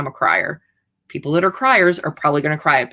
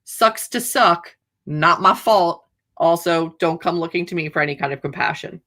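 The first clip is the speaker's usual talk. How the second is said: mock callous reply. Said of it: "You basically went".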